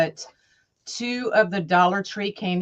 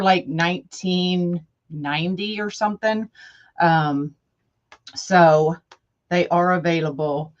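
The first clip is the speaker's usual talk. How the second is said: out of breath from the stairs. Real, not acted. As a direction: talk while still out of breath. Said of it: "I'm kinda short of breath".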